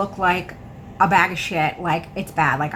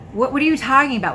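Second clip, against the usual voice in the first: annoyed; 5 semitones higher, 4 dB louder, much faster than usual. Retold or imitated. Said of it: "now I'm getting annoyed".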